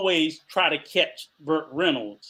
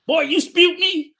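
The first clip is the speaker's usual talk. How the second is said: high, slow grandma voice; imitating grandma, pitched up; imitating grandmother; 12 semitones higher, 7 dB louder, slower than usual. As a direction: mimic the old grandmother scolding, slow. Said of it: "she used to always sit there and tell me".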